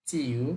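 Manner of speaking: চিউ low and dipping; Chinese third tone. Shown as a demonstration. Teacher repeating চিউ with a dipping third tone. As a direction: bend চিউ down, then lift it. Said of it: "third tone ভেঙে বলতে হবে".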